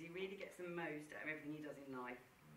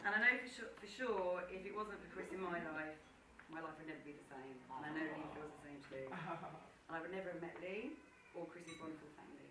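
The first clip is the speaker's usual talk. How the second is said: sincere. Real, not acted. Heartfelt toast to the couple.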